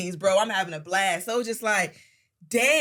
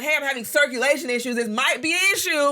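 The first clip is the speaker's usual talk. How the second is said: higher, louder hammed-up dad; mock dad complaining; 5 semitones higher, 4 dB louder than usual. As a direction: play a dramatic dad fishing for pity. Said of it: "he could be like".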